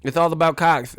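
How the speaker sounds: lightly imitated boxer; a hint of the boxer's promo voice; Mike Tyson. Streamer retelling the cable outtake, light boxer impression. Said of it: "he was like".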